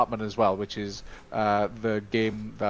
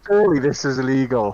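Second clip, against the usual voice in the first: a touch of put-on amazement, louder; loud mock shock at the price; mock disbelief; 2 semitones higher, 7 dB louder than usual. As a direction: gasp it like a steal too good to be true. Acted quote of amazement.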